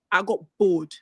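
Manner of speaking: ordinary talk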